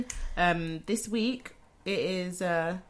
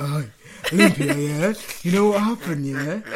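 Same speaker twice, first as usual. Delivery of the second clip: imitating phone voice; 3 semitones lower, 4 dB louder than usual. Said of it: "when I call you, you're like".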